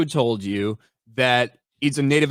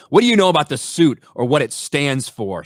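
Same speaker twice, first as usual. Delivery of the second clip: lightly voiced Captain America; 4 dB louder than usual. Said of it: "says Captain America".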